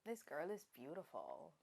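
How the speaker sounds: soft, low Yoruba accent. Shown as a demonstration. Host taking the challenge, soft Yoruba accent. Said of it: "in Yoruba".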